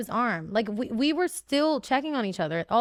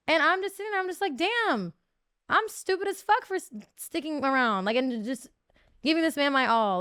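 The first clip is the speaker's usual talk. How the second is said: heated venting; 5 semitones higher than usual. Real, not acted. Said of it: "venting frustration".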